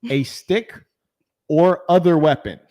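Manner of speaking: slow, deliberate definition read; dictionary reading. Acted. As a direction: read each definition out slowly.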